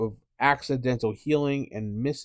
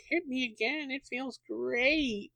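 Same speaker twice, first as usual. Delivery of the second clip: high, soft, slow blissful goblin voice; gleeful Nilbog; 13 semitones higher, 6 dB quieter, slower than usual. Acted. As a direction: savour every blow like a treat. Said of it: "The Nilbog".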